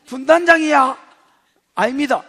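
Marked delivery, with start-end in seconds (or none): 0.1-1.0 mocking demand. Continuing mocking interrogation.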